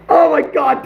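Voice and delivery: delighted outburst; excited. Real, not acted. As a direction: burst out thrilled. Viewer timed out, gleeful reaction.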